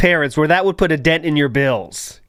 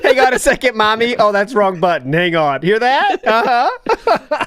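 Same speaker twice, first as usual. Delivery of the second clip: morphing voice; 2 semitones higher than usual. Retold or imitated. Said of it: "this voice changer".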